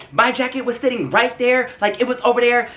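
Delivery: high-pitched mock accusation; frantic accuser. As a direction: mimic her insisting in a high voice. Acted frantic woman pointing, accusing.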